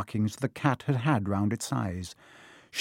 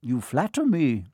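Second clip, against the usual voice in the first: calm, even wizard; a hint of calm modesty; calmly. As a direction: brush it off calmly. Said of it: "said Dumbledore calmly".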